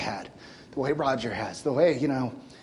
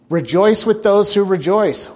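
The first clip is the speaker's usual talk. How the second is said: ringing scripture proclamation; 4 semitones higher, 9 dB louder than usual. Real, not acted. Preacher to congregation, ringing scripture call. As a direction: call it out over the room.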